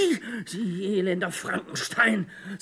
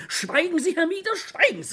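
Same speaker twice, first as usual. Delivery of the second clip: pleading outcry; 8 semitones higher than usual. Acted. Begs Mieder to stop talking.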